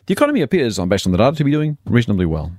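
measured, formal news read; ABC newsreader voice. Pretend. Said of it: "put on my best A B C Newsreader voice".

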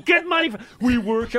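high, loud mock scream; comic retold shriek. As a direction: scream the order across the room. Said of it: "I'm screaming".

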